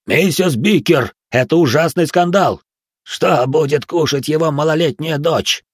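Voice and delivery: slow, loud, high outcry; wailing. Acted. The giants wail at Mrs Bicker about the scandal, loud and slow. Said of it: "Завопили гиганты".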